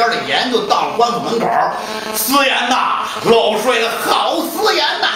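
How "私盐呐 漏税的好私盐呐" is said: higher street-vendor cry selling salt; hawker's cry. Acted. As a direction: call out the salt like a street peddler. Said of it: "这一嗓子喊出去". (沿街叫卖的吆喝)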